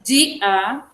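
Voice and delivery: "De a" as two separate beats, "di, a"; syllable by syllable. Shown as a demonstration. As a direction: dictate "De a" with a gap between syllables. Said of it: "vocês têm que separar".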